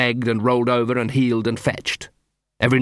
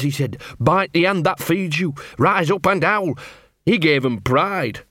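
lightly voiced awed dog, rising into higher pitch; fearful fascination; 3 semitones higher than usual. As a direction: build from explanation to awed quoting. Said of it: "a mixture of fear and fascination".

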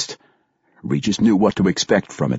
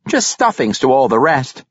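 halfling warrior; 5 semitones higher, 3 dB louder than usual. A narrator's reading. Halfling continues.

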